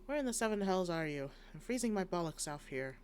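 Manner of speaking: angry. Acted. Impatient guard voiced in game.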